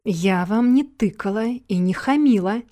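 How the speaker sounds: loud, affronted protest; indignant. A narrator's reading. Yuna objects to the man's rudeness, indignant. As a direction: push back firmly, offended. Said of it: "возмутилась Юна".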